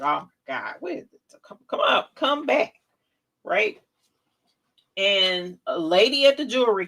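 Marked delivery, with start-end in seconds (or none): 0.0-2.8 panicked calling. Retold or imitated. Grandson runs off, calling him.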